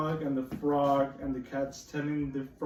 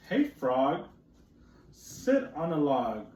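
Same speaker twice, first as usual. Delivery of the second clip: lightly voiced cat, slow and firm; cat's line; 3 dB louder, much slower than usual. Teacher reading the cat to children, slow mild cat voice. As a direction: read the cat's demand, drawn out. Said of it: "said the cat".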